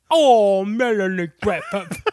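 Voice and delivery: her name said through a laugh; mock fond sigh breaking into laughter. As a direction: crack up while sighing her name. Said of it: "He just keeps calling her Melanie Griffith".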